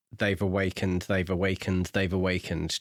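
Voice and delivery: "They've awakened" looped with the same tune each time; "They've awakened" over and over, unvarying; on repeat. Retold or imitated. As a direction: repeat "They've awakened" identically, like a stuck record. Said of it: "just on repeat".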